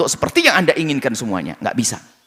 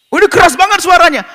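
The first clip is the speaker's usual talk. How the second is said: mock surprise; 14 semitones higher, 8 dB louder than usual. Villager reacts to loud speaker.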